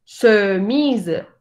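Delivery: chemise with a rounded schwa, slow; French chemise. Shown as a demonstration. Teacher modelling a French word for the class. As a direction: say chemise slowly with rounded lips.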